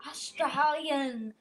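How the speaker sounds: drawn-out mock Australian; Australian accent. Kid announcing an Australian dish, hammed-up Australian accent. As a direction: stretch the word slowly in an Australian accent. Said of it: "I'm gonna talk Australian".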